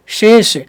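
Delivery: शेष said slowly with two distinct sh sounds; careful slow शेष; model sibilants in शेष. Shown as a demonstration. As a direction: demonstrate शेष, thick first sh, thinner last. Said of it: "शेष नहीं".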